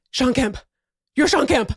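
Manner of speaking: put-on a kid who can't believe who's in front of him, building; starstruck kid. A kid meeting his basketball hero, rising excitement.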